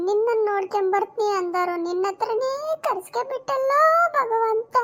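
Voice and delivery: hammed-up wailing to God, rising at the end; overdone widow-style keening; wife mourns in-laws in melodramatic wails; mock lament. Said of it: "Shashi ಹೆಂಗ್ ಅಳ್ತಿದ್ದಾಳೆ".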